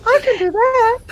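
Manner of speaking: put-on very high, loud squeaky e-girl voice. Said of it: "do an e-girl voice".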